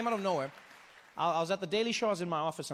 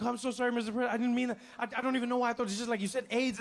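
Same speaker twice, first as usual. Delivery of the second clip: much higher, rushed panicked apologizing; frantic apology; 7 semitones higher, faster than usual. Retold or imitated. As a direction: babble your way out of an embarrassing blunder. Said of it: "and then I was like".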